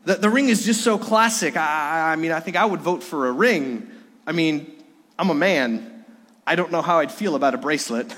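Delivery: mock German accent, lightly done; light German-accented player quote. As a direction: imitate Dirk with a German accent. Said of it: "he said it with a German accent".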